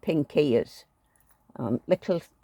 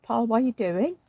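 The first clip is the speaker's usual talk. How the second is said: higher, pointed, annoyed; mock annoyed question; 5 semitones higher than usual. Wife to husband rummaging in the kitchen, mock irritated. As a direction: retell the irritation in her voice.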